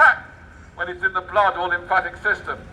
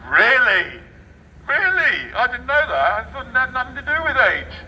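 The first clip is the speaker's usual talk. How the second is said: mock surprise; 4 semitones higher than usual.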